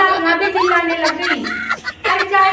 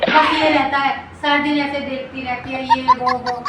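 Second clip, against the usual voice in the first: a hint of a whiny mother-in-law, slightly lower and softer; grumbling mother-in-law; 4 semitones lower, 4 dB quieter than usual. Mother-in-law complaining to the audience about her son's wife, mildly whiny. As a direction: sigh about the worthless daughter-in-law like a put-upon elder.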